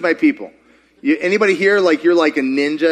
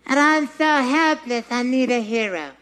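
helpless victim; 6 semitones higher than usual. Acted.

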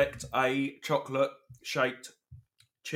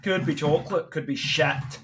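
put-on Scottish accent, louder and bouncier; 3 dB louder than usual. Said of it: "Scottish accent".

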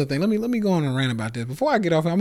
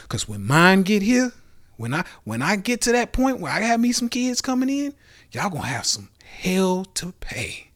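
loud warning; 6 semitones higher, 4 dB louder than usual. Real, not acted. Warning listeners about his future kids, loud and high. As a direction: voice climbing high and loud, half joking.

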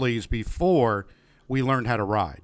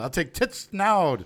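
imitating Sean Connery; 5 semitones higher, slower than usual. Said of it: "he talks about".

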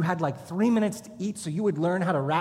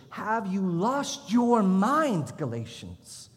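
mock rebuke; 3 semitones higher, much slower than usual. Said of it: "pastor echoes rebuke".

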